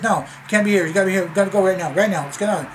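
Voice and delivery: mock yell, cutting him off; retold angry yelling. Girlfriend cutting him off, ordering.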